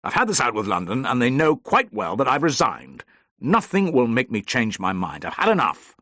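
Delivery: sharp, cutting and final; firm, hard-edged insistence; whiplash refusal. Acted. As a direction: snap it shut, no argument. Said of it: "His voice was like a whiplash".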